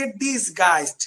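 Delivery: teacher's model "dis-gaist" for ডিসগাইজড; pronunciation demo. Shown as a demonstration. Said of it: "উচ্চারণটা হচ্ছে".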